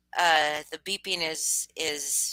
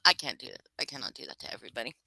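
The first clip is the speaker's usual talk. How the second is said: quick aside; 7 semitones lower, 6 dB quieter, much faster than usual. Real, not acted.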